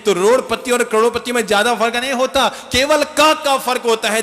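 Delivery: high and loud, landing the wordplay on का; excited punchline. Real, not acted. Preacher landing a wordplay punchline for the crowd, high and loud. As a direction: build up and hit the punchline.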